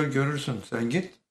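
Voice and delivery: insistent urging. Retold or imitated. Acted retort in retold dialogue. (ısrarla, sesi yükselterek yollama)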